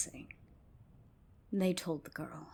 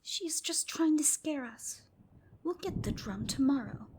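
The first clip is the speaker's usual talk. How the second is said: put-on higher, louder childish scoff; scoffing girls; 8 semitones higher, 3 dB louder than usual. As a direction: scoff like naughty kids. Girls scoffing to each other.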